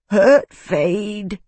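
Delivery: put-on a touch of childlike gabble; gabbling. A narrator's reading. Simple slave Fade gabbling fearfully to Isana. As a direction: blurt it like a frightened child. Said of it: "the slave gabbled".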